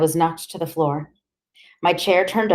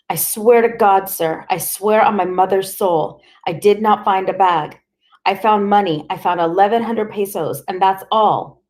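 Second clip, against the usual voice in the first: desperate pleading; 3 semitones higher, 4 dB louder than usual. Acted. Boy pleads to interrogator.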